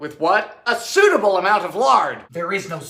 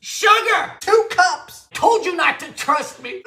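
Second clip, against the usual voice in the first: mock excited shout; 11 semitones higher, slower than usual. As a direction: cry it out like a game show host.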